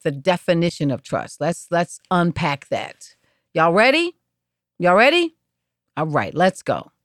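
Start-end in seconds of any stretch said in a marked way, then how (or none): 3.5-5.3 hype call. Real, not acted. Hyping up the listeners.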